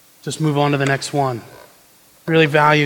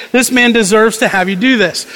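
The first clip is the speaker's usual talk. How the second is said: mock pleading; 4 semitones higher than usual. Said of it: "they plead".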